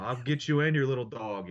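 a hint of the Wicked Witch cackling a threat. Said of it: "He sounds like the Wicked Witch".

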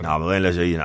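normal talking voice

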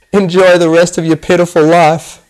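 loud, high villain's taunt; taunting shout. A narrator's reading. Doctor locking captives in the room, taunting shout.

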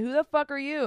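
high, loud, indignant demand; acted confrontation. Storyteller confronts the woman in the car, loud and high. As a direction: raise your voice at the rival.

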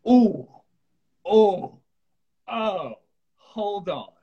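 high, loud ow-ow fading away; mock pain yelp. Retelling the stubbed toe, a yelp of pain that fades. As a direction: act the first sting of a stubbed toe.

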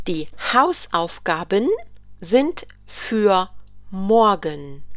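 slow, careful classroom reading; slow model sentence. Shown as a demonstration. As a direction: stretch the words for learners. German teacher models a sentence.

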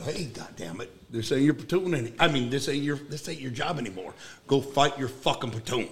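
controlled retold telling-off; restrained, matter-of-fact command; firm, not yelling. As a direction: give a stern order without raising your voice. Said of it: "I didn't yell at him".

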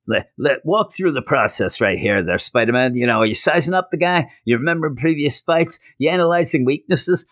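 high, fast eager reporter; pushy interviewer. Retold or imitated. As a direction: shove a mic in his face. Jonah interviews mid-fight.

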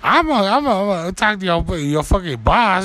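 high-pitched sputtering comeback; mock threat. Diner threatening to talk to the boss, mock indignant. Acted threat in retold quarrel.

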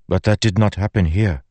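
insistent protest. Acted. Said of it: "Zeth said".

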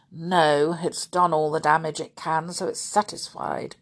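a touch of grimness; grimly. Acted. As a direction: say it darkly with a hint of gloom. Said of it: "said Uncle Quentin grimly".

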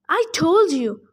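protesting satyr. Acted. Old satyr refusing Juniper, protesting loudly. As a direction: protest like a huffy old goat. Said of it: "the satyr protested".

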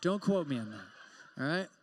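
laughing disclaimer. Real, not acted. Joking disclaimer to the crowd.

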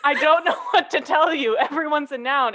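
deadpan sass at a silly claim; exasperated sass. Retold or imitated. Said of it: "I was like".

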